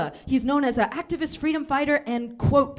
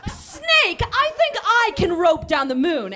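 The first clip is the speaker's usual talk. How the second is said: rabbit voice; 4 semitones higher, 4 dB louder, slower than usual. Acted.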